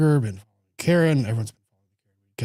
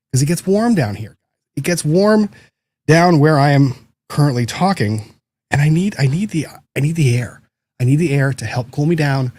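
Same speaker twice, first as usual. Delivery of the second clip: louder, higher, pleading excuse; 4 semitones higher, 5 dB louder than usual. Real, not acted. Streamer pleading with the chat over the air conditioning, louder and higher. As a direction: justify the air on, voice up. Defending turning the AC on.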